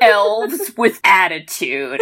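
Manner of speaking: slow, cocky tagline; hammed-up elf swagger; mock menacing elf. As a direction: drag out a tough one-liner. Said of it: "that elf kid goes".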